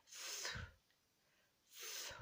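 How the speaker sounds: th, th breathed out softly with the tongue between the teeth and no voice; just the air of th, no vowel after it; th sound alone. Shown as a demonstration. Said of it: "The first sound is th".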